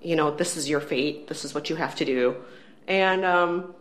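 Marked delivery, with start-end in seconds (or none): 0.0-2.4 a hint of a British accent, solemn. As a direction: lower British accent, imitating a boy God. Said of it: "he is saying in a British accent".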